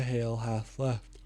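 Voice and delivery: yawning. Real, not acted. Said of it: "I'm sorry about the yawning".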